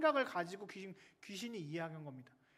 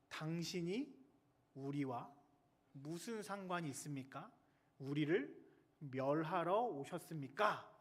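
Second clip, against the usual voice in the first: hesitant question in broken phrases; mildly intimidated, held-back questioning; cowed demon; slower than usual. Acted. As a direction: ask warily, with pauses between phrases. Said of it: "쫄아 있는 것 같지 않습니까?".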